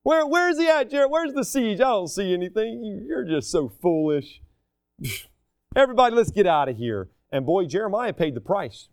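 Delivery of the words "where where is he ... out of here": mocking jeer. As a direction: mimic mockers scoffing at a prophet. Preacher acts out mockers jeering at Jeremiah.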